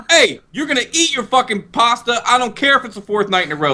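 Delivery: high, bossy mother impression; Khaleesi. Bossy mama ordering everyone to eat pasta, high mock scolding. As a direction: lay down the law in a hammed-up high voice. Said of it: "She was like".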